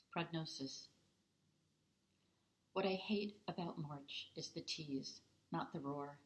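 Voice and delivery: measured poetry reading with short, separated phrases; poem recitation. Acted. Poet reading to library audience about a bad March, measured recitation. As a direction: recite it as verse, evenly paced. Reads own poem aloud.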